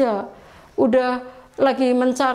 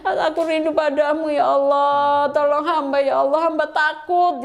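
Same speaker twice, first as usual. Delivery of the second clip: mildly imitated weeping plea; retold tearful prayer. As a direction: beseech God with drawn-out calls, crying only hinted. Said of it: "Umi nangis lagi sejadi-jadinya". (doa memelas, menirukan tangis secara ringan)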